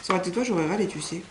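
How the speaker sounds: ordinary talk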